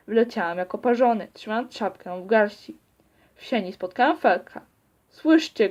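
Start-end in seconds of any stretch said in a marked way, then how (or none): 5.1-5.7 a high, loud shout right at him; shouted in his ear. A narrator's reading. Narrator shouts into his brother's ear in the hallway, loud shout. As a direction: yell it straight into his ear. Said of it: "krzyknęła mu w ucho".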